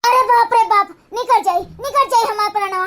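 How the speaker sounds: hammed-up groans of a fake heart attack; mock wailing. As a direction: moan and wail as if struck by a seizure. Wailing as if dying.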